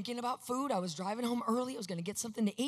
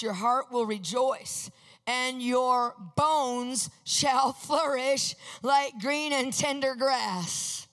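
louder, slowing right down at the end; scripture proclamation; 4 dB louder, slower than usual. Acted. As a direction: proclaim the verse, stretching the last words.

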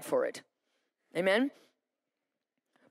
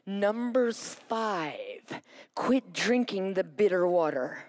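very slow, solemn divine voice; God's voice; much slower than usual. Retold or imitated. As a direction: speak each word slowly like God answering. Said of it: "And he goes".

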